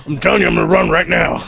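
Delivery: fast laughing declaration. Real, not acted. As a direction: rattle it off between laughs. Gleeful declaration of running away.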